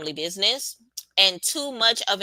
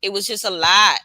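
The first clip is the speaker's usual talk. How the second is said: an R&B singer's voice; 5 dB louder than usual. Retold or imitated. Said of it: "In my R&B singer voice".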